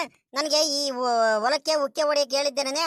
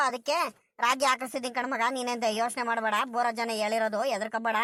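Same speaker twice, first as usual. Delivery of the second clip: quoted reassurance; 3 dB quieter than usual. Retold or imitated. Driver retelling how the landowner told him not to fear, quoted reassurance.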